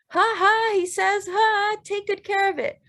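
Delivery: high laughing voice through tears. Acted. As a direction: laugh out the words, bloodied but glad. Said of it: "he's laughing".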